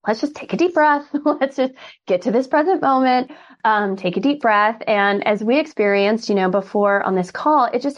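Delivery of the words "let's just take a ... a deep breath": calming patient. Shown as a demonstration. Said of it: "a strategy and like".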